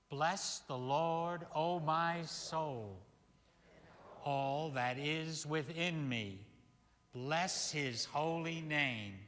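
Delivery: slow, measured recitation; psalm said together. Acted. Minister reciting the psalm aloud with his congregation. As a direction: lead the congregation through the psalm. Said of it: "Do you want to say it with me?".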